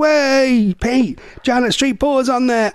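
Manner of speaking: teasing call-out. Retold or imitated. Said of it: "we always go".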